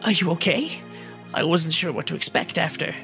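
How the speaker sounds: high, worried fairy voice; trembling voice. A narrator's reading. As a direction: ask anxiously in a high voice. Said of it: "Navi's voice trembled".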